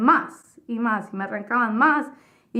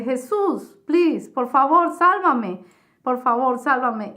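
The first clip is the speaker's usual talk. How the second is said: desperate plea; 4 dB louder, slower than usual. Retold or imitated. Begging Jesus in hell, retold.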